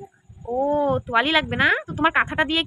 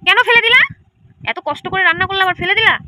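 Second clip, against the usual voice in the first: mock scolding; 4 semitones higher, 6 dB louder than usual. Child threw away pretend food.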